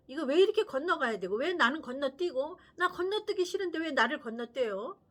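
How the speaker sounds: put-on loud, indignant little girl; a four-year-old demanding why she is skipped; child protesting to dad.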